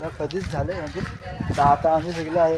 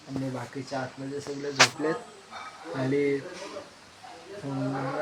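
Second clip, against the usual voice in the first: quiet at night; 6 dB quieter than usual. Real, not acted. Others asleep inside, sitting alone.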